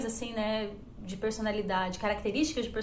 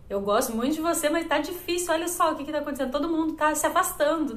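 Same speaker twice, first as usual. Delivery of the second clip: higher-pitched, urgent pleading, lightly acted; retold friend's warning; 5 semitones higher, 3 dB louder, faster than usual. Best friend at college warns her people are pulling away, retold urgent concern. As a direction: imitate a concerned friend pressing the point.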